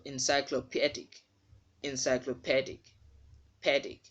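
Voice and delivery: "encyclopedic" as "en-sy-clo-PED-ik", then "pedic" alone; stressed short "eh" in "pedic"; short-E pronunciation. Shown as a demonstration. Teacher drilling the syllable for learners, short-E pronunciation. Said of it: "the letter E will sound as E".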